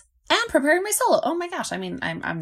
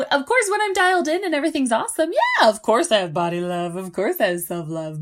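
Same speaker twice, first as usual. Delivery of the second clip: excited; 4 semitones higher, 7 dB louder than usual. Retold or imitated. Exaggerated cheerful.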